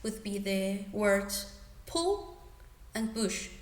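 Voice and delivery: slow, careful 'pull' with a short u; teacher modelling the short u in 'pull'; pronouncing the vowel. Shown as a demonstration. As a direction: say 'pull' and 'push' slowly, vowel stretched out. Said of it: "some examples with this sound".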